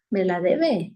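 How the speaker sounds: mock a resentful grumble; grudging mutter. Preacher imitates a resentful person, in a low grudging mutter.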